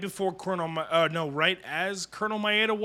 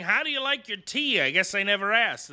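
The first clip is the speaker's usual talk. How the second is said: playing the villain mockingly; mock villain voice; 5 semitones higher than usual. Villain voiced in anime recap.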